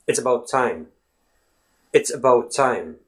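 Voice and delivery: "about" with a reduced uh in "It's about time"; schwa. Shown as a demonstration. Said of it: "You say about".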